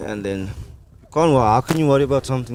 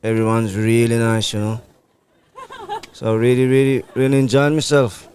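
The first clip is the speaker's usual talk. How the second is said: put-on West Indian accent. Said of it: "are you gonna talk to us in your normal accent now".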